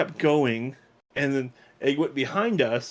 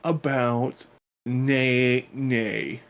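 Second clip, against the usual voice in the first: drawn-out mock voice; much slower than usual. Joking twist on "no.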